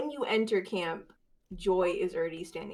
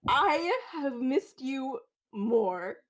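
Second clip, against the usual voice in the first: tender; 5 semitones higher, much slower than usual. Acted. Joy answers brother warmly.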